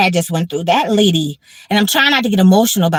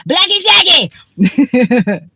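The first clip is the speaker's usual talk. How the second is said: very slow, drawn-out, higher and louder sing-song cry; playful exclamation; 6 semitones higher, 4 dB louder, much slower than usual. Real, not acted. Hyping up blackjack with a friend, gleeful drawn-out cry. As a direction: stretch the name out like a gleeful chant.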